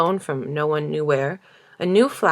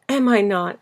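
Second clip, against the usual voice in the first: sweetly; 3 semitones higher than usual. A narrator's reading.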